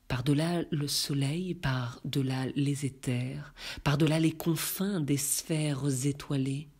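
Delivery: measured, even-pitched verse reading; poem recitation. Acted. Reader recites Baudelaire's Élévation before commenting, solemn poetry recitation.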